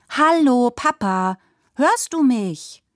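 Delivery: high, loud call to get his attention; girl trying to reach her distracted father, high and loud. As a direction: shout up at a dad who isn't listening.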